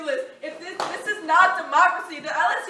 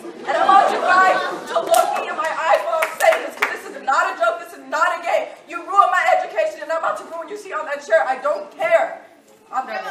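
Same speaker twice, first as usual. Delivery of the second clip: loud, fast, cutting; furious student speaking out; defiant; 6 dB louder than usual. Real, not acted. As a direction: deliver the threat with force. Student's defiant closing at board.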